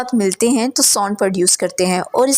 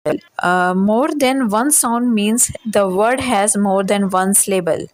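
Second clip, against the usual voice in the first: slow definition reading; much slower than usual. Acted. Teacher reading the English definition to students, slow and deliberate. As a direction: read each English word slowly and evenly.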